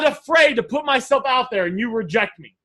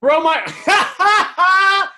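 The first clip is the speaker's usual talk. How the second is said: loud, high-pitched laughing outburst; real burst of laughter; 8 semitones higher, 4 dB louder than usual. Real, not acted. Coach reacting to a funny guy's comment, laughing hard. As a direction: crack up out loud mid-phrase.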